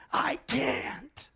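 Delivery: put-on high, desperate girl crying out I can't; panicked refusal from a trapped child; child screaming. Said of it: "the little girl would scream".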